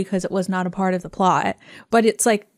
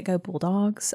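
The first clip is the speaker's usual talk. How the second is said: Southern accent; 5 dB quieter, slower than usual. Shown as a demonstration. Podcaster showing how she says the team cheer, light Southern accent. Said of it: "slip a little bit into a Southern accent".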